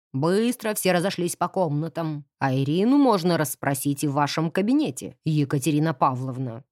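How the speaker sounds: low, commanding man's voice; gruff caretaker. Acted. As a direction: order everyone off firmly. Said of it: "завхоз".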